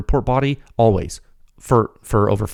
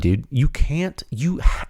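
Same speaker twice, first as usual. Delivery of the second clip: normal talking voice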